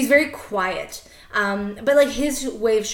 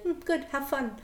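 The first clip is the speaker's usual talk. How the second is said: dad's best reaction; 4 semitones higher, 8 dB quieter than usual. Retold or imitated. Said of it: "that's, like, the best reaction".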